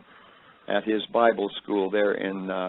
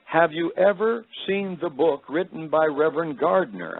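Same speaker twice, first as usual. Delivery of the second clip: higher-pitched attempt at a British lady; a hint of British accent, pitched up; heavy British accent; 6 semitones higher than usual. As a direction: lightly imitate an elderly British woman. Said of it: "in her heavy British accent".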